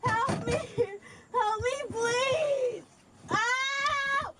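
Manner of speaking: tearful pleading cries; crying for help. Real, not acted. Drunk woman stuck, crying out.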